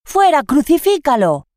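escalated mob yell "Fuera"; loud shout. A narrator's reading. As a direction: mob at full cry. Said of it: "Ellos gritaron".

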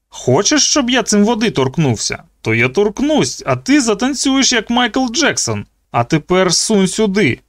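high, mocking threat; menacing bully. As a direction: taunt him with the stun gun. Zeke threatening.

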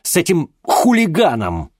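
high, loud contemptuous shout; angry father. Acted. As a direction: spit out the insult. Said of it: "Отец гневно зыркнул".

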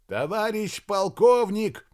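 high, loud, drawn-out call; cutting in. A narrator's reading. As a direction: break in over the other speaker. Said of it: "перебил его Максим". (перебить громким окриком)

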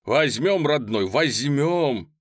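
heartfelt, stretched-out cry; fervent assurance. Acted. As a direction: promise it with all your heart. Wounded Cossack urging on his comrade.

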